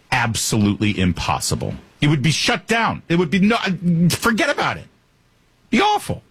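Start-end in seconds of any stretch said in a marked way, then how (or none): 2.0-6.2 winding up into an incredulous near-squeal; rising mock horror at the crowds; building exasperation. Real, not acted. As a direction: voice climbing much higher on forget about it, be awful.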